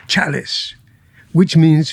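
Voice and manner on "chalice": imitated Queen's English; Prince Charles's accent. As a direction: finish the quote in a put-on royal British accent. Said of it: "He said".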